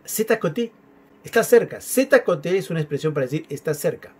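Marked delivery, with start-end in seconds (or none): 0.0-0.7 "C'est à côté" in a high sing-song tune; light, high-pitched "C'est à côté", casual little tune; with a little lilt. Shown as a demonstration. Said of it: "cuando le da un tonito". 1.8-2.6 "C'est à côté" pitched up, then falling; higher, tuneful "C'est à côté"; with a little lilt. Shown as a demonstration. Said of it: "cuando le da un tonito".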